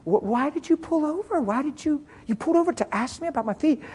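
high-pitched, puzzled questioning; retold amazement. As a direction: act out her bewildered disbelief. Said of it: "And she said".

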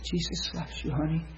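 soft, hushed reassurance; tender comfort. Retold or imitated. Minister to woman in pain, tender and soft. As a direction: comfort gently, nearly whispered.

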